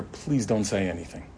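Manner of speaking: urgent whisper. Retold or imitated. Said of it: "whispers in her ear".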